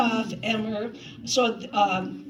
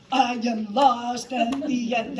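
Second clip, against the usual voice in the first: slow mock line; 4 dB louder, slower than usual. Shown as a demonstration. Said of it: "leave that up to me as a director".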